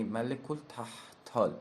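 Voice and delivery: ملک التحتال with an emphatic ت and a long second a in تحتال; teacher's careful say-after-me ملک التحتال; model pronunciation. Shown as a demonstration. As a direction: lay out ملک التحتال syllable by syllable.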